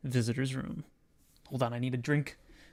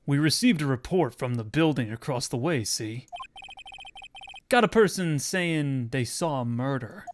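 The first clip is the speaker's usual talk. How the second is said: gravelly detective voice. Acted. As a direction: growl it like a gruff old detective. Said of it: "Doing those gravelly voices is killing me".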